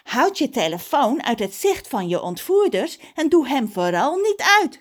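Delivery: high, over-articulated official voice; policewoman Kelly. A narrator's reading. Police officer reassures Ron by phone, high and emphatic. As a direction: draw out each phrase firmly.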